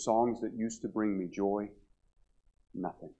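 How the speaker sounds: retold confession, slow with long empty pauses. Retelling a despairing woman's confession.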